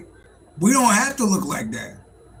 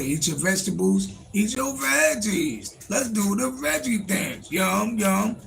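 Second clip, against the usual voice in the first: higher, slow coaxing voice; coaxing father; 3 semitones higher, slower than usual. Retold or imitated. Father coaxing his daughter to eat vegetables, slow and high. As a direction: coax a child into eating veggies. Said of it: "tell my daughter".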